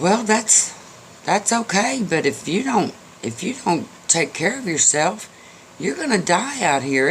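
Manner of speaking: the mule pleads with the horse to save itself; a fretting mule urging a friend; worried mule. Acted.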